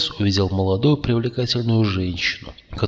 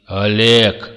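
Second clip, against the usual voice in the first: louder, dumbfounded call; stunned exclamation; 6 dB louder than usual. A narrator's reading. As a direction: exclaim in disbelief. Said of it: "ошалело воскликнул Макс". (ошалелый возглас)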